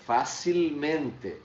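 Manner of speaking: facilmente said slowly with stress on men; pronunciation demo. Shown as a demonstration. Teacher slowly models facilmente for students. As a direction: stretch facilmente out, leaning on the penultimate. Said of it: "Mas vejam bem a minha, minha pronúncia".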